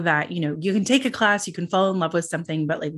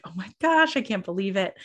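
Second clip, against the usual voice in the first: gushing disbelief; 3 semitones higher than usual. Retold or imitated. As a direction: imitate being overwhelmed by kind words. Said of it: "I'm just like".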